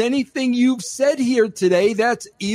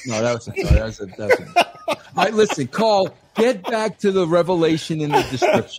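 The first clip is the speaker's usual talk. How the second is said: laughing. Real, not acted. Laughs at his own joke.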